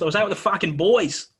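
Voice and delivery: hammed-up Australian accent; jokey Australian accent, punched-up delivery. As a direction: play it as an Aussie lad. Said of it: "funniest with an Australian accent".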